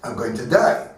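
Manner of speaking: fearful Esther. Retold or imitated. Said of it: "She says to him".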